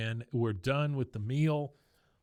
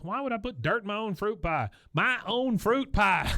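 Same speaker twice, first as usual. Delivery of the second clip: high-pitched, indignant protest building louder; mock outrage; 10 semitones higher, 4 dB louder than usual. Bobby defending his fruit pie, hammed-up outrage. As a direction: protest higher, then stretch the repeat loudly. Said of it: "he's outraged".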